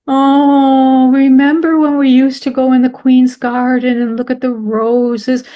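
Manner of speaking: a hint of a wistful husband reminiscing; husband's wistful voice. Husband reminiscing to his late wife about the roses, lightly wistful. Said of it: "He'd say".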